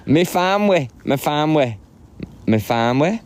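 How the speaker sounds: sing-song stab at Welsh, starting high; attempted Welsh accent. Practising for a trip to Wales, attempted Welsh accent. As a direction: have an unsure go at a Welsh lilt. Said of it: "That's Welsh".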